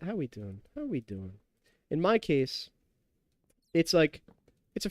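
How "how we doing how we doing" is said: muttered aside. Real, not acted. Quiet aside to self.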